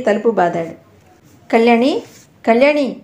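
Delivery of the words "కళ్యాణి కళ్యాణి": louder anxious call through a locked door; calling out to her behind the door, anxious and loud. Acted. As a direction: call her name, worried and urgent. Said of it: "అతని గొంతు కూడా ఆతురతగా ఉంది".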